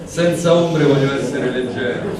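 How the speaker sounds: measured, even recital of a poem; poetry reading. Acted. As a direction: read the poem aloud with care. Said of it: "ora vado con la traduzione".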